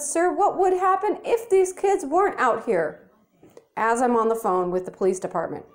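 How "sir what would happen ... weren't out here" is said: higher, mock-courteous question; pointed faux-polite comeback; sarcastic polite challenge. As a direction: needle him with fake politeness.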